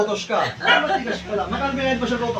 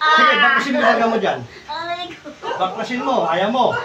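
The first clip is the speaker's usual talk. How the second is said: loud, insistent order; forceful command; 3 semitones lower, 6 dB louder than usual. Real, not acted. Healer orders the spirit to undo it, forceful command. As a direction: give the order at full firmness.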